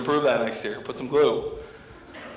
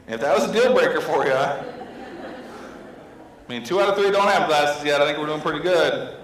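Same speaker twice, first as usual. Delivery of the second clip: mock defensive husband, slightly raised; getting mad; 3 semitones higher than usual. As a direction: argue your case with hammed-up mild annoyance. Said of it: "So I'm getting mad".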